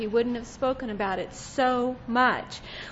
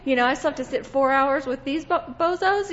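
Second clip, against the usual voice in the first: put-on bored whining child. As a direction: whine like a fed-up kid in the backseat. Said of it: "we'd be like".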